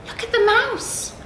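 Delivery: high, quick monkey chatter; a monkey chattering up in the branches. Acted. Monkey chatters to the other animals, high and quick. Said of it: "chattered the monkey".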